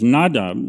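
"Nadab" with the stress on its a. Shown as a demonstration. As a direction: lean on the A in "Nadab". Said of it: "with an emphasis on the A".

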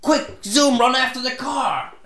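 high, urgent imitation of a lady; mimicked frantic high-pitched yell; retold shout. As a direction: cry out for help, high and loud. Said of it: "And she shouts".

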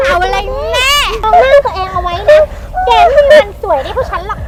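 crying. Acted. Losing the fight, crying.

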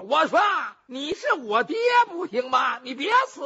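high, loud, pleading cry; kneeling jailer begging the prisoner not to die; desperate begging. Acted. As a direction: beg on your knees in a panic.

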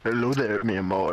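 low, loud flirty lover voice; seductive voice. Pretend. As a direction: put on a deep romantic charmer. Flirting in a put-on voice.

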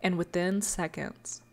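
hushed dramatic storyteller voice; story narration. A narrator's reading. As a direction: tell it like a dark fairy tale. Lore story narration opening.

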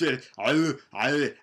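normal talking voice

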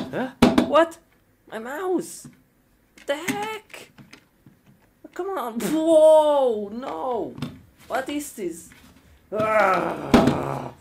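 high, startled cries over a broken mouse; shocked high panic. Real, not acted. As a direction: yelp in disbelief as the mouse fails.

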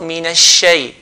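"shay" between fatha and kasra; wrong shay. Shown as a demonstration. Teacher shows the wrong in-between vowel. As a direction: slide "shay" toward e, the wrong way. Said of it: "which is wrong".

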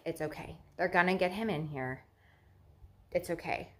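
softly retold self-reassurance. Patient reassuring herself her partner is coming, softly reassuring.

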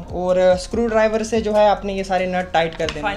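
normal talking voice

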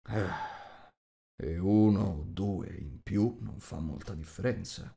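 usual speaking voice

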